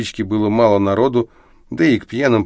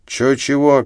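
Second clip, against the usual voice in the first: higher, astonished question; 6 semitones higher, 3 dB louder, slower than usual. Acted. Big driver asking back in astonishment. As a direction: ask back, stunned. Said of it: "переспросил ... изумлённо".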